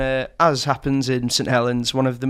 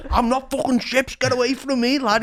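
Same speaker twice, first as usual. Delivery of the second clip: retold angry rebuff; 8 semitones higher than usual. Retold lad rebuffs the friend.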